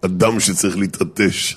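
low, slow prime-ministerial address; mock statesman's announcement; Bibi. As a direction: address the nation in measured, weighty phrases. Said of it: "זוכרים את ההנחיות של ביבי".

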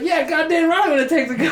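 high, pushy impersonation; mock combativeness. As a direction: imitate a cocky repo woman. Imitating combative repo woman.

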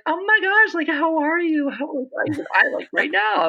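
put-on very high, gushing girly squeal of hello; feminine greeting. Speech pathologist imitates women saying hi, hammed-up high feminine voice. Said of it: "with the female, you're like".

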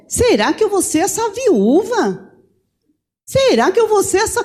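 high, pleading questions to God; distressed questioning. Retold or imitated. Widow-to-be questions God about her fate, high and anguished.

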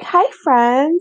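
put-on intro voice; podcast intro greeting. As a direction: greet listeners like a show opener. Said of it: "like the intro thing".

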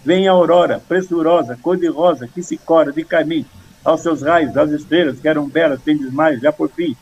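memorised poem in evenly measured little phrases; three-syllable verse recitation. Shown as a demonstration. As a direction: recite in short, regular three-syllable beats. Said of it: "Com três".

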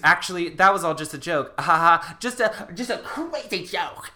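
loud, forced, nervous ha-ha that peters out; fake laugh. Ricky tries to cover to the principal with a forced laugh. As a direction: laugh it off badly.

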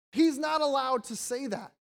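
the Pharisees bristle, insisting only God forgives; indignant objection. Retold or imitated.

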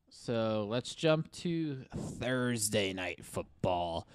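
slow, drawn-out game announcer. Acted. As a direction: announce it like a big fight night. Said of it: "I was just doing my announcer voice".

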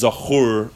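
Zachur ending in a clear "oo"; U sound. Shown as a demonstration. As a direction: say Zachur as "za-KHOOR". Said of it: "with the U sound".

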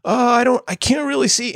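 high-pitched mocking whine of a quitter; mock whiny fighter. Mocking the boxer who wants out, high whiny voice. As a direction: lightly ham up a fighter faking blindness.

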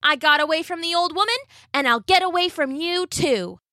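high, fast boastful cookie; gingerbread man voice. Acted. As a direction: brag it, quick and cocky.

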